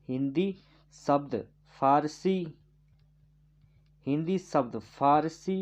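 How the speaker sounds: धीरे-धीरे लिखवाते हुए, शब्द अलग-अलग; नोट लिखवाने की धीमी आवाज़; slow dictation. Shown as a demonstration. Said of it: "इस तरह से लिखना है नोट करके". (छात्रों को नोट लिखवाते हुए धीमी बोली)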